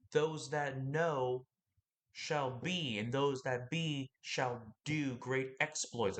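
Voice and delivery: slow, solemn verse reading; scripture recitation. Acted. Quoting a verse to listeners, slow and solemn.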